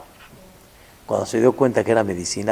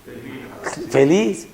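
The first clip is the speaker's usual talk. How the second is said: joyful exclaim; 3 semitones higher, much slower than usual. Acted. Preacher answering how the mother felt, joyful. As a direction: burst out with joy. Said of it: "¿cómo estaba?".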